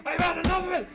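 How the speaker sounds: high, loud mock rant; drunken neighbor screaming. Drunk neighbor ranting at his family, screaming. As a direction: bellow like a fed-up drunk husband. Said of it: "he's, like, screaming".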